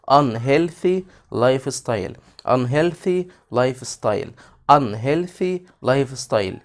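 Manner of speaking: unhealthy life style said slowly, UNHEALTHY stressed; slow drill. Shown as a demonstration. Teacher repeating a new phrase slowly for the class. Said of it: "repeat drill".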